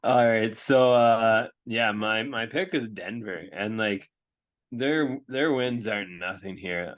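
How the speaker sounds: holding in hiccups; suppressing hiccups. Real, not acted. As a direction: speak around the hiccups. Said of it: "I have the hiccups right now".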